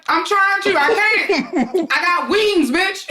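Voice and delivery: high, giggly wired protest; telling her friend she can't sleep, giggling high; laughing protest. Retold or imitated. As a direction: laugh through it like you can't come down. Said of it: "I was like".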